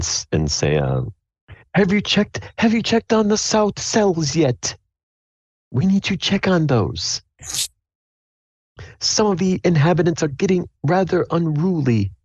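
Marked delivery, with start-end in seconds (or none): 1.7-12.1 high, muffled guard through a door. Acted. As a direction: talk like you're behind a closed door. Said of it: "you can hear the muffled voice".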